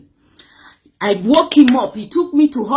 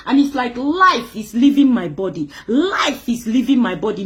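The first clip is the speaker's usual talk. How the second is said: real crying. Real, not acted. Testifying about her illness to the audience, crying. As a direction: voice breaking into tears as she speaks.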